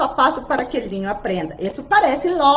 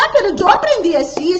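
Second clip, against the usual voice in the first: mock objection; 6 semitones higher, 4 dB louder, faster than usual. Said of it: "unas personas dicen".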